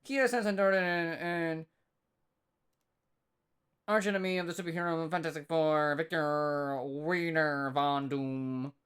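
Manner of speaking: thick Arkansas twang, throaty gargle; arkansas accent. Pretend. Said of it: "the Arkansas twang throat gargle one".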